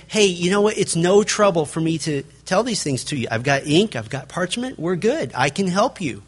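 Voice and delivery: light casual reassurance; a hint of easygoing kindness; mildly friendly Paul. Paul reassuring the Philippians, lightly friendly. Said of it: "Paul is being very nice".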